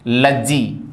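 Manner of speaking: लज्जी with a short le; logy as lejy. Shown as a demonstration. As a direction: say लज्जी as ledgy. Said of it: "ये लो नहीं है, ल है". (लज्जी छोटे ल के साथ)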